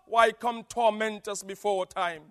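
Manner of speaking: loud, high frightened cry; demons crying out. Acted. Demons crying to Jesus, loud and afraid. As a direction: cry out the name in dread. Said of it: "he said".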